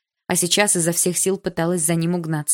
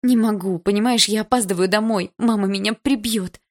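pleading, raised and hurried; desperate; 4 semitones higher than usual. Acted. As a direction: beg him, panicked about getting home late. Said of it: "столько отчаяния".

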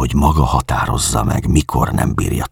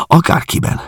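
inconsolable; 7 semitones higher than usual. A narrator's reading. Schwarz pleading that her memory survive a while, inconsolable. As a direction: let the despair push the voice up and out. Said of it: "mondta hirtelen vigasztalanul".

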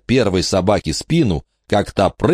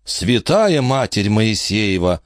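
exclaiming; 3 semitones higher, slower than usual. Acted. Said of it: "воскликнул где-то рядом Аделаида".

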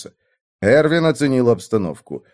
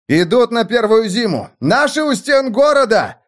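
shouted from the crowd; 9 semitones higher than usual. A narrator's reading. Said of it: "раздалось среди обозных".

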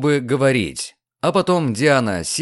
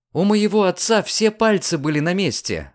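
raised insistent cry; emphatic exclamation; 6 semitones higher than usual. Acted. Diana correcting Lucian about her father, exclaims. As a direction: declare it with conviction. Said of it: "воскликнула Диана".

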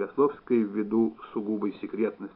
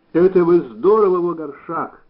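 loud, higher, admiring surprise; raised storybook admiration; impressed exclamation; 7 semitones higher, 11 dB louder than usual. A narrator's reading. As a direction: exclaim as if whistling in amazement. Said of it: "даже присвистнул Устименко".

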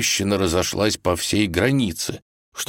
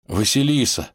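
halting, raised emotional voice; reassuring; 8 semitones higher than usual. Acted. Rescued Ivan promises Vasilisa all will be well, reassuring. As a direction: promise it in short, breath-spaced phrases.

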